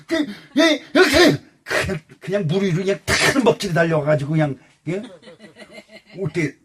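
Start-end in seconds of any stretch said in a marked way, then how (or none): 0.0-2.0 startled parent. Retold or imitated.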